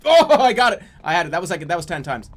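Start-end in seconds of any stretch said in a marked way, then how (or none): 0.1-0.8 loud, high cry of success; triumphant shout. Real, not acted. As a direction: burst out in real triumph. Triumph after finishing tongue twister.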